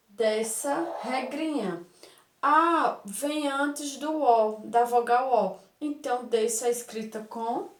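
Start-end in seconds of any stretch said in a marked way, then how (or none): 2.4-5.7 slow, deliberate rule for the class; slow teaching emphasis. Shown as a demonstration. Teacher to pupils, dictating a spelling rule slowly.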